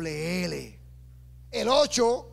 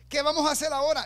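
retold shout; 5 semitones higher, faster than usual. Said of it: "Lo gritó".

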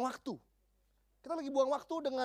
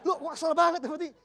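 laughing; 6 semitones higher, 8 dB louder than usual. Real, not acted. Laughing at the boy's wish.

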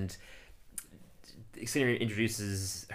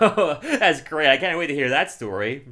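loud, raised imitation of an eager newcomer; hammed-up eager delight; mock enthusiasm; 3 semitones higher, 5 dB louder than usual. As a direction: gush it, stretching the opening. Acted eager reply in retold scene.

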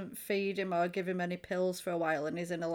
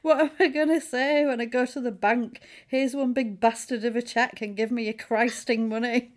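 louder mock indignant rant; Annie ranting; 3 semitones higher, 6 dB louder than usual. Annie fuming about the bank, louder mock rant. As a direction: spit out the rant half-hammed. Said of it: "when she says".

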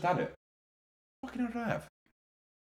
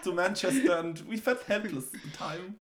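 mock manager press conference; 4 semitones higher than usual. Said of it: "In the press conference after the game".

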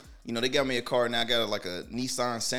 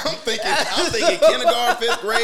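laughing; 11 semitones higher, 11 dB louder than usual. Real, not acted. Laughing at own joke.

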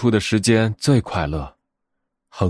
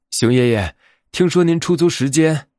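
higher-pitched little rabbit voice; 5 semitones higher than usual. Acted. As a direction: pipe up to grandpa as a small bunny. Little rabbit calls on grandpa.

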